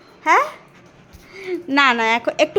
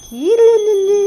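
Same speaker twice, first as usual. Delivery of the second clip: high playful call; 7 semitones higher, 4 dB louder, slower than usual. Real, not acted. Teasing the cat.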